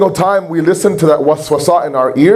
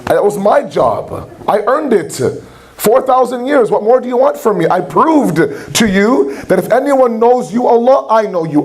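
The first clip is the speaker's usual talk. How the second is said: higher, pleading indignant complaint; a raised, aggrieved Shaitan arguing with God; mad Shaitan; 5 semitones higher than usual. Retold or imitated. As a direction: rise in pitch as Shaitan protests he earned it. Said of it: "He was mad".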